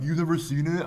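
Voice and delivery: students' mock outrage. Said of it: "students yell at me".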